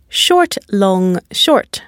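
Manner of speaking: stressed "long" between two brief "short"s; stress pattern demo. Shown as a demonstration. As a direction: draw out "long", keep each "short" brief. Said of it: "only one long and stressed syllable".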